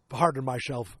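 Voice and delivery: slushy mock presidential voice; Richard Nixon. President consulting Mentallo about a pardon, slushy caricature. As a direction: turn the s into sh, lightly caricatured. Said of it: "a Richard Nixon impersonation".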